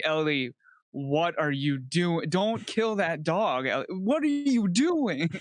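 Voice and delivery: helpless ghost pleading, climbing in pitch; Joel as ghost. Acted. Ghost following the girl through the game, distressed pleading. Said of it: "you're just Joel as a ghost following Ellie".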